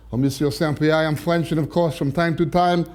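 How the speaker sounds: lightly put-on French de Gaulle; French accent. De Gaulle owning up to Saint Peter, light French accent.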